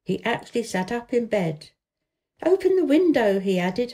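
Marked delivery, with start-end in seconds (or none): 2.4-3.4 raised, half-laughing command; joyful excitement. A narrator's reading. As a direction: call it out in glee. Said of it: "half laughing, with joyful excitement".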